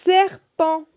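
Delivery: long hissed S opening "Serpent", said loud and high; stretched initial S. Shown as a demonstration. Teacher has children listen for S in serpent, stretched initial S. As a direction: hold the first S of "Serpent" before the vowel. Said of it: "Est-ce qu'on entend le S?".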